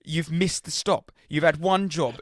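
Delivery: irate man berating the bus driver; angry passenger. Retold or imitated. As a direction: scold the driver like a furious commuter.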